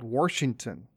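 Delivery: WASHINGTON said as Warshington; intrusive R. Shown as a demonstration. Recalling a childhood state name, Washington with an R. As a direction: put an R in the first syllable of Washington. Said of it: "stick in that R".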